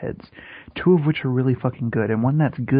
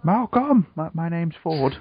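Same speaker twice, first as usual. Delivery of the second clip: put-on British accent; 3 semitones higher, slower than usual. Ford calling to Malcolm, British accent. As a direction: call out the name in a British accent. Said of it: "Why is Ford British?".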